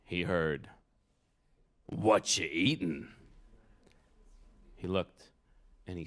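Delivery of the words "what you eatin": slow, low goblin drawl. Acted. Big fat goblin to Herschel at his pickles, slow goblin voice. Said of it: "This goblin was weirder looking".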